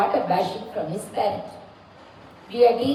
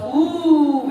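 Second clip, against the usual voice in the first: mock wail; 3 semitones higher, 4 dB louder than usual.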